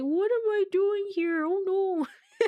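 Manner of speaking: play-acted mopey, sad, very high, slow, drawn-out voice. Voicing a character whose face looks a little sad: sad Kako voice. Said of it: "Kako's face looks a little sad. He's just like".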